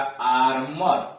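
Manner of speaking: 'आर्मर' said slowly with a short a sound; slow demo. Shown as a demonstration. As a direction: draw out 'आर्मर' for the class. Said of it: "एक तरह अ हो रहा". (धीरे से 'आर्मर' का उच्चारण)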